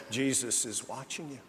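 a low, quiet voice from the darkness, saying "Jesus is watching you"; a hushed, spooky "Jesus is watching you" from the shadows; eerie voice in the dark. Acted. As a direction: let "Jesus is watching you" drift out softly, like an unseen watcher. The voice again from darkness.

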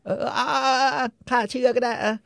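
high, sing-song sarcastic agreement; mocking sneer. Cogburn mocks the Texas Ranger, high and sarcastic. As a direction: play along with him in a mock-impressed way.

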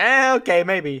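high, unsure mock hesitation; hesitant high squeak. Retelling the movie, Arthur takes the gun in a high hesitant voice.

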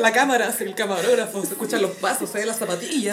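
high, loud, hurried producer; frantic producer. Retold or imitated. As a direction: rush the crew, urgent and loud. (productor apurado gritando)

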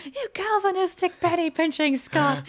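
hint of a pompous old colonel; quoting Colonel Blimp. Recalling a Colonel Blimp line, lightly voiced officer. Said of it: "which also made me think of".

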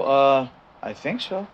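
slow, unsure "I think so"; hesitant groom. Pretend. Groom answering the minister at the altar, slow and hesitant. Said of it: "Or if you said it cautious".

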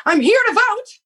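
put-on high proud little kid announcing; lightly voiced five-year-old, squeaky; child voice. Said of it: "my nephew goes".

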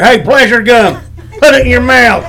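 loud Southern cowboy pitch; Southern cowboy accent. Shown as a demonstration. Host offering a cowboy version of the slogan, loud Southern accent. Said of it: "how about this like here?".

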